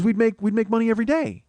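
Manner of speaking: high, eager wife imitation; excited scheming. Wife selling husband on daily profits, high excited imitation. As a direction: imitate dreamy money-making glee up high.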